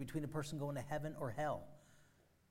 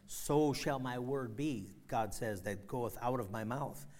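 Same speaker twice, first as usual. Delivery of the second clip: scripture reading. Acted. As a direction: intone it like holy writ. Quoting scripture solemnly.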